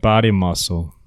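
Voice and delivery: low teasing repeat of her words; mocking echo. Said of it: "echoing her phrase mockingly".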